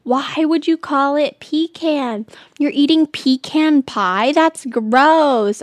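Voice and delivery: high, slow, drawn-out disbelief; mock outrage, stretching the words; imitating appalled people. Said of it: "And people are like".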